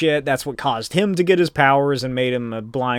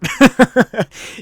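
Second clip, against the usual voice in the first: high, loud burst of giggles; real chuckling burst; amused laugh; 8 semitones higher, 6 dB louder than usual. Real, not acted. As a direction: laugh at your own story. Amused at villain knocking himself out.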